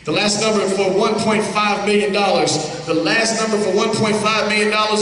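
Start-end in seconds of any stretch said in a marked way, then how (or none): 0.1-2.1 game-show announcer. Acted. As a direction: sell the big draw like a host.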